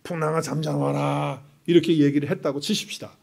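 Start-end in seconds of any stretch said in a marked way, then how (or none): 0.0-1.5 commanding the storm. Retold or imitated. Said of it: "그리고 예수님이".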